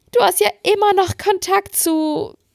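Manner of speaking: acted hysterical wailing through tears, very high, drawn out. Retelling what she said to the speaker while in tears, imitating hysterical crying. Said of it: "So hysterisch hat sie geweint".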